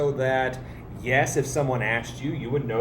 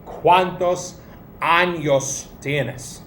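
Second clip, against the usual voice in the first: slow model sentence; slower than usual. Shown as a demonstration. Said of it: "let's remember our tilde".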